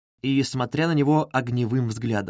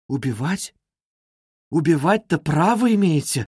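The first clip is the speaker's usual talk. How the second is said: shocked disbelief. Acted. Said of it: "всплеснула руками Соня".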